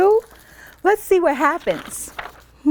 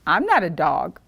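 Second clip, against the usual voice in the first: low, soft coyote; 10 semitones lower, 3 dB quieter than usual. A narrator's reading. Coyote answers Hank, low and calm. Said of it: "said the coyote".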